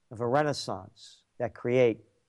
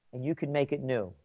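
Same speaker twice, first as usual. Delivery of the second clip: "you can make it new" dropped softer, stress on you; softer, personal; 6 dB quieter than usual. Shown as a demonstration. Urging the listener directly, softly. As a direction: turn the slogan into a quiet personal nudge. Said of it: "one of our top trends".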